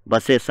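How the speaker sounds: "బస్సెస్" ending in a short -es; common wrong pronunciation. Shown as a demonstration. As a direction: say "బస్సెస్" with e in the second syllable. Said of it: "అది తప్పు".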